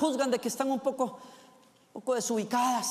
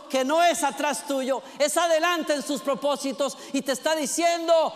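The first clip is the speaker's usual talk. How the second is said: fervent preaching. Acted. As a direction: preach it with full force, building. Preacher builds to full force.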